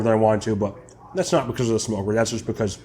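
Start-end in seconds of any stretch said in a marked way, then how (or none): 2.1-2.8 talking while chewing; words around a bite of brisket; mouth full. Real, not acted. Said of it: "I'm talking with my mouth full".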